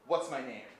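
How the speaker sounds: mildly forceful retold taunt; imitating a fighter's challenge; aggressive demand. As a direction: demand it in short, separate bursts. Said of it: "It's just, like, horrifying, aggressive".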